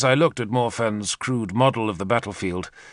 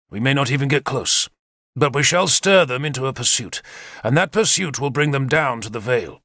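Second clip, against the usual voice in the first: lightly raised, keen war-leader voice; Arthur, eager commander; 3 semitones higher than usual. Acted. Arthur briefs his captains on the attack, eager commander voice. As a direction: lay out the plan like a confident general.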